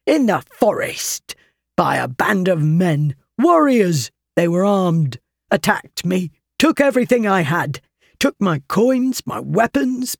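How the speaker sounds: hint of a wronged traveller complaining; lightly voiced aggrieved stranger. Stranger complains to Alice about the robbery, mildly voiced.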